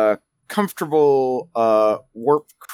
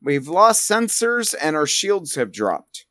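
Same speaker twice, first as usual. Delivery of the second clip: raised-pitch crew report; Chief Moon; 4 semitones higher than usual. Acted. Chief Moon reporting lost sensors and shields, raised pitch. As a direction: pipe up with a higher-pitched report. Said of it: "Pipes up and says".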